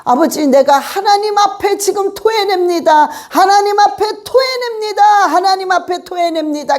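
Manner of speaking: phrase by phrase, 하나님 pressed on each repeat; fervent repeated prayer; repeated declaration. Shown as a demonstration. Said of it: "계속 반복하란 말이야. 마디마디를".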